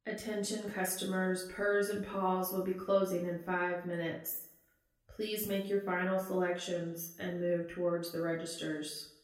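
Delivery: chirpy store clerk on the PA; customer service voice. Acted. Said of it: "in her best, customer service voice".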